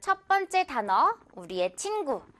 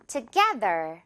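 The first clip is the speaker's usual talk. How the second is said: together whispered with the GE stressed; whispered demo; 3 semitones lower, much slower than usual. Shown as a demonstration. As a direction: breathe it out, tu-GE-ther. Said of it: "듣고 따라해주세요". (속삭이듯 together, 깨에 강세)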